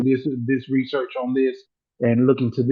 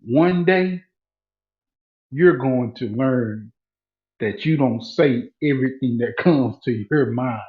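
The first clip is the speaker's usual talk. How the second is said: lower, slow, softer stern warning; boss's warning; 4 semitones lower, 3 dB quieter, slower than usual. Retold or imitated. The boss warns him about his mouth, low slow and stern. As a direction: hand down a quiet lesson, slow and low. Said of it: "he said".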